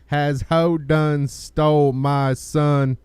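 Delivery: character voice. Pretend. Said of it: "I'm gonna have to get a character for this one".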